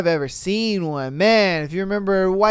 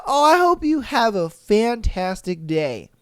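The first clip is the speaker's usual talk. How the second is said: fake polite. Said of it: "They'd be sitting there just like".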